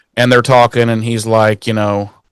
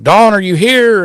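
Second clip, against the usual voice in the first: higher mock call up the stairs; calling out as Spike; 9 semitones higher than usual. Spike calling up to Dawn, high mock call. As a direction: sing out her name in a high mock Spike voice. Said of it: "he's all like".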